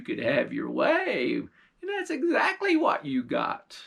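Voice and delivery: put-on sly old witch defending her deal.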